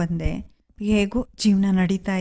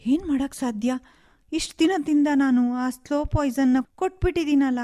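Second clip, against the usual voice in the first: higher, anxious fretting; panicked remorse; 5 semitones higher than usual. Acted. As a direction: fret in rising panic over what she's done. Guilty panic over poisoning. (ಪಶ್ಚಾತ್ತಾಪದ ಗಾಬರಿ)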